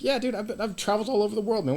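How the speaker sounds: cocky brush-off. Retold or imitated. Cocky tourist brushing off warning.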